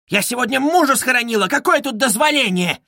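high, indignant cry; wailing outrage. A narrator's reading. Widow protesting to a policeman, wailing. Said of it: "завопила Катерина Ивановна".

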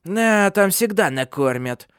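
slow, high-pitched crone's hiss; hissing old woman. A narrator's reading. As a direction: draw it out spitefully as an old witch. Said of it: "прошипела Ханна".

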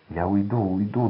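plain reading voice

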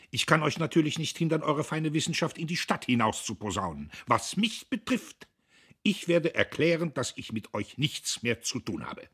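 high, loud pompous proclamation; outraged announcement; indignant renunciation. Acted. Diederich angrily renounces his family.

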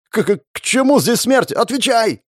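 shriek, tripping over the first word; panicked wail. A narrator's reading. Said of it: "завопил он".

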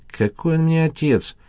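a scornful scoff, pitched well up; mocking, high disbelief. A narrator's reading. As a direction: toss it off with a dismissive snort. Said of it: "хмыкнул Саша".

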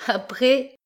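Après? repris en question, très aigu; renvoie-lui son Après? d'un ton moqueur et montant; reprise moqueuse. Acted. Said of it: "Elle lui riait d'un large rire". (Après? répété en question moqueuse et aiguë)

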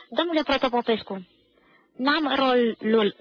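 slow, drawn-out mumbling excuse; sheepish student. Acted. Schoolboy to the director, admitting he has no part, drawn out slowly. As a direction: drag out the excuse like a caught schoolboy.

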